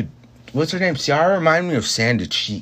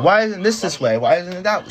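higher-pitched mock nagging; pestering retold questions, pitched up; nagging coworker imitation; 5 semitones higher than usual.

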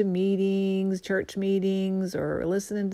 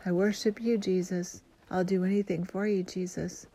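softly spoken prayer. Shown as a demonstration. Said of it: "you have to tell him".

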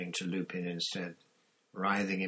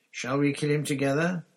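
louder, higher grim offer; grim Black; 8 semitones higher, 9 dB louder than usual. Acted. Black asks Lupin to kill Pettigrew with him, grim. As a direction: ask it with dark resolve.

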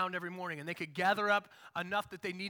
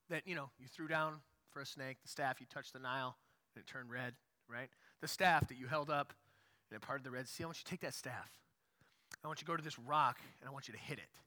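hushed God command; 8 semitones lower, 8 dB quieter than usual. Retold or imitated. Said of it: "God says".

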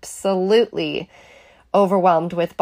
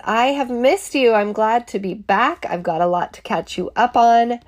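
hoarse and sick; 4 semitones higher than usual. Real, not acted. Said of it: "Apologies for my hoarse, sick voice".

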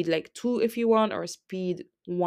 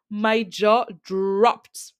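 slow, breathy whisper; slow awed whisper; hushed whisper; 2 semitones higher, 5 dB louder, much slower than usual. Real, not acted. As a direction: whisper it as if still stunned. Hushed aside about her shock.

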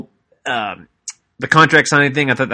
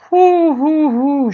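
excited whoo; much slower than usual. Real, not acted. Hyping Alexa Bliss's next segment.

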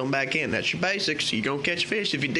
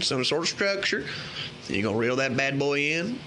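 put-on loose, drawling Southern country accent throughout; hammed-up Southern country accent giving fishing tips. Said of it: "in my best form of country accent".

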